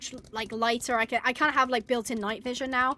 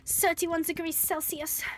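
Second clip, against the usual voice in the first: slow, higher mock European accent; put-on foreign accent; 4 semitones higher, 4 dB quieter than usual. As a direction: play with a foreign accent, "th" turned to "s". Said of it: "I wish I had a cool accent".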